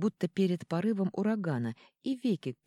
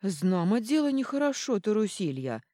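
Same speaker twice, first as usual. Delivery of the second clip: folksy dwarf voice; 5 semitones higher, 5 dB louder than usual. Acted. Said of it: "голос откуда-то из-под крыльца".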